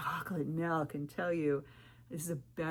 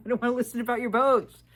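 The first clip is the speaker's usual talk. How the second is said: fed-up mockery; 6 semitones higher, 10 dB louder, faster than usual. Real, not acted. Mocking the lonely men.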